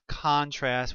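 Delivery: "contrast" said CON-trast, stress on the first syllable; noun stress on first syllable. Shown as a demonstration. Teacher showing the noun form, "contrast" stressed CON-trast. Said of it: "with the accent on the first syllable".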